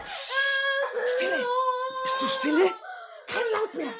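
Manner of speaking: sharp, high shushing; fierce hushing. Acted. Matron hushing the boy, sharp and cross. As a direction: silence him with a hiss.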